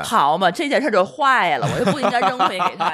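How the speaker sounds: laughing. Real, not acted. Laughing retelling of pedantic listener.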